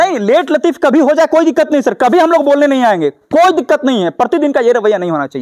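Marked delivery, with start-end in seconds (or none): 0.0-4.1 higher, easygoing reassurance to the teacher; reassuring. Real, not acted. Reporter reassures the head teacher, raised and easy. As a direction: brush off a little lateness kindly.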